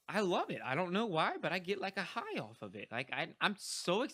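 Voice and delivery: real excitement when talking about mentoring; happy excitement. Real, not acted. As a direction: let the joy come through. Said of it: "you can see in my voice of how happy I am".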